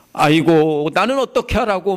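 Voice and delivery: a touch of lamenting cry; mock wailing. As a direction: imitate a mourner's wail lightly. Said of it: "막 하면서 소리를 치겠죠".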